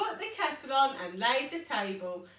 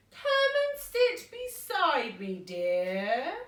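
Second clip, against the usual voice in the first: growled; 3 semitones higher, 3 dB louder, slower than usual. Acted. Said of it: "growled the wolf".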